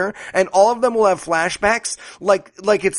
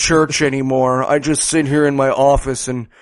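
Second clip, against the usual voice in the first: lower, slowed-down mock delivery; slow-motion Jimmy Kimmel; 5 semitones lower than usual. Pastor explaining he quit church, in mock slow motion. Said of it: "slow motion Jimmy Kimmel's like".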